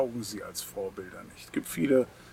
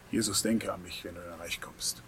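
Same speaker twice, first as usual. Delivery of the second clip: criminal's plea; 5 semitones lower, 7 dB quieter than usual. Retold or imitated. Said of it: "So ähnlich hat's der Schwerverbrecher am Kreuz gesagt".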